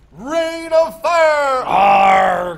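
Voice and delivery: slow roaring dragon shout, high and loud. Retold or imitated. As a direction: roar it out like Sean Connery's dragon. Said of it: "He goes".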